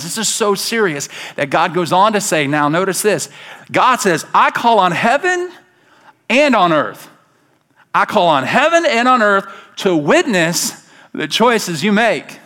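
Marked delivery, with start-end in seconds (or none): 4.3-12.4 booming voice of God. Acted. Pastor voicing God's call to the church, booming and raised. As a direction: call heaven and earth as witnesses with force.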